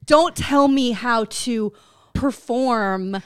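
hammed-up wounded pride; affronted diva protest; mock offended. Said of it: "that's how almost offended I get".

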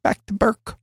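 echoing the title in a light jingle voice; mock announcer echo; copied intro voice. Shown as a demonstration. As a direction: repeat the title as a mock sting. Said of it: "Did I say it like that?".

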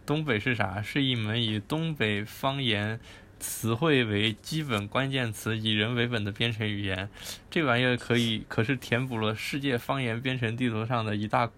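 northeastern Chinese accent. Shown as a demonstration. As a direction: read it out like a Northeast local. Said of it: "那你来念一下吧".

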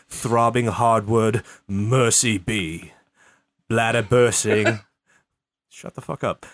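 lightly hammed-up poetry recital; dramatic poem reading. Host reading his crude poem to the stream, mock-solemn. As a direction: recite it like a grand serious poem.

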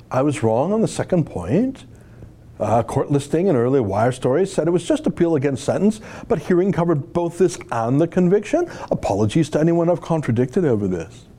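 lightly mocking Valley Girl lilt; Valley Girl accent. Host reads a British snob's grudging apology, mock Valley Girl accent. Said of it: "doing a Valley Girl accent for a British snob".

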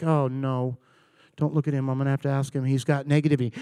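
low, hushed warning; acted dread. Room avoiding the negative person, hushed dread. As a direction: mutter it low so he won't hear.

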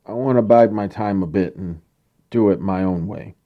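mope it out like Droopy Dog. Acted. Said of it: "You sound a little like Droopy Dog".

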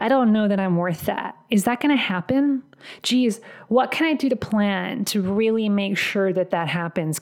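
unsure, questioning, mildly hand-wringing; acted self-doubt. Coach voicing a client doubting the raise, acted self-doubt. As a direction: talk yourself out of believing it. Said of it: "doubt-inducing questions".

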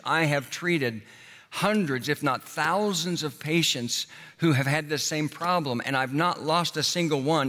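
a hint of an emphatic doctor. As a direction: insist like a doctor who knows best. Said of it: "the doctor will say emphatically".

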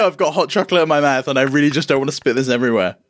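high, laughing, flustered panic. Retold or imitated. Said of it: "I'm like".

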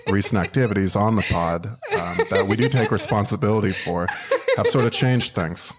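low, subdued mock-apology voice; podcaster making a statement. Podcast host addressing everybody after recent activities, mock solemn.

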